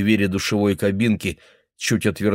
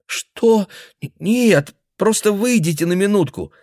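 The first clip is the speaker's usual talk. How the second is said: put-on high, urgent frightened girl; girl begging the old man to leave; startled pleading; 11 semitones higher, 3 dB louder than usual. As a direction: stammer out a plea.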